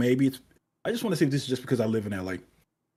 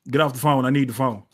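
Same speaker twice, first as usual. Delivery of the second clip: mom yelling; 3 dB louder, faster than usual. Retold or imitated. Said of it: "and then you hear".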